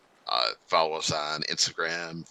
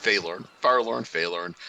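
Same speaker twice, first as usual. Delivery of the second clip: New York accent; 4 semitones higher, 3 dB louder than usual. Shown as a demonstration. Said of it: "I'm from New York. That's how we're gonna say it".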